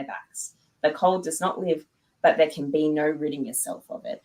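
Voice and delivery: measured fantasy audiobook reading; story narration. Shown as a demonstration. Author reads her fantasy novel to podcast host, measured narration. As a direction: read it as dramatic narration, trailing down at phrase ends.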